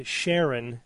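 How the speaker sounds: "Sharon" as SHARE-on; name-based pronunciation. Shown as a demonstration. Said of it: "he wanted it pronounced after his wife".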